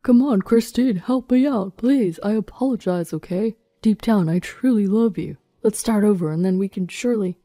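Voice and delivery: loud begging in a put-on man's voice; desperate pleading. Arrested husband begs his wife for help, desperate.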